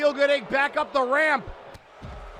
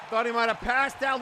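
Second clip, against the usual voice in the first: ordinary talk, nothing marked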